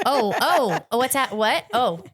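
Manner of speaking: surprised oh. Retold or imitated. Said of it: "And I go".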